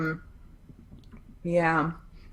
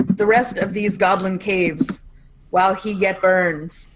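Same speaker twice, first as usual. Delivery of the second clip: very slow, grand pronouncement of a possessed priest; torch voice; much slower than usual. Acted. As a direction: intone each phrase slowly like a holy flame speaking. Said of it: "when I used my torch voice".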